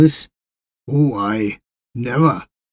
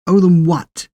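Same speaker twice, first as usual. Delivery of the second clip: higher, louder, scornful challenge; indignant retort; 6 semitones higher, 5 dB louder than usual. Acted. Les scoffing back at the complacent, indignant and louder. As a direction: throw the question back in disgust.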